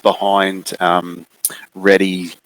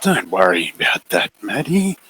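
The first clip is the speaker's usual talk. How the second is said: creepy figure; 8 semitones higher than usual. Acted. The figure coaxing Maddie into a cuddle, creepy and high. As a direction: lure her closer, sweetly sinister.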